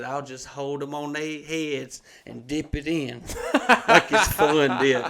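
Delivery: slow quote broken by real laughter; can barely finish for laughing; laughing through it. Real, not acted. Retelling the old man's joke to a friend, laughing through it. Quoting Emmett while cracking up.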